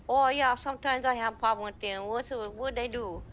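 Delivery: slightly high, lively character voice; put-on character voice.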